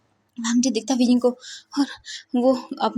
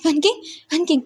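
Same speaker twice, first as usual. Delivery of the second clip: high, raised call down the hospital corridor; calling out loudly; 7 semitones higher, 4 dB louder, faster than usual. Acted. Wei Ying calls down the hospital corridor for the doctor, shouting. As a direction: shout a name to fetch the doctor. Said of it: "आप ऐसे hospital में चिल्ला नहीं सकते हैं".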